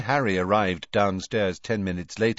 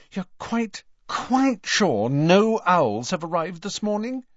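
anxious; 11 semitones higher, 3 dB louder than usual. Acted. Hermione voiced in audiobook.

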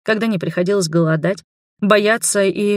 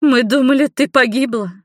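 shaken neighbour; 6 semitones higher, 3 dB louder than usual. A narrator's reading. Neighbour thought she died.

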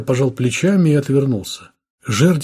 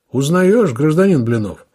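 higher, louder pointed challenge; accusing question; 4 semitones higher, 5 dB louder than usual. Acted. Lieutenant confronts the suspect with the suitcase, accusing. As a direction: corner him with the suitcase.

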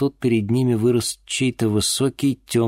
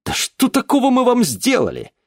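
very high, loud indignant cry; outraged protest; 5 dB louder than usual. Acted. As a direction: protest with all your force.

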